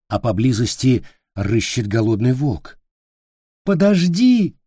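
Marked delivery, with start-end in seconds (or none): 3.6-4.6 high, louder cry after the goblin; child calling out in panic; desperate child shout. Acted. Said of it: "закричал он".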